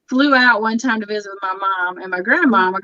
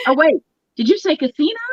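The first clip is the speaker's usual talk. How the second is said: put-on old grandma perking up; 4 semitones higher, faster than usual. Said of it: "be like".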